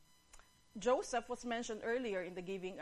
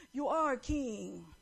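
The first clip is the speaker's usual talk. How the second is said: slow, stretched-out submissive reply; slow, deferential giraffe; giraffe's answer; 4 dB louder, much slower than usual. Acted. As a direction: draw out each word, bowing to the king. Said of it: "the giraffe, taas-taas, nagbend pa".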